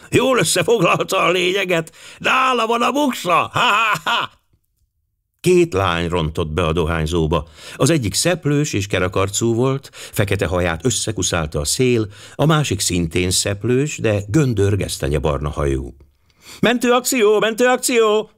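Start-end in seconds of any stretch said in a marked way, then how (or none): 0.1-4.3 put-on high, amused old gentleman; chuckling. A narrator's reading. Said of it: "kuncogott az öreg úr". 16.6-18.3 put-on very high girlish battle cry; shouting. A narrator's reading. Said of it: "kiabálta Kitty Mooney".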